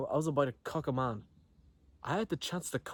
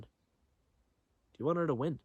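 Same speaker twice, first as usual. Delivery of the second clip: slow dramatic question; 3 semitones higher, much slower than usual. Retold or imitated. Dramatic challenge to friend.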